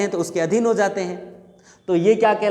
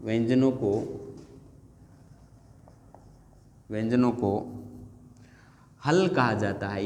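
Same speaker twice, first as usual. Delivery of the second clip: slow dictation; 8 semitones lower, 6 dB quieter than usual. Shown as a demonstration. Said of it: "तो आपको कहना है".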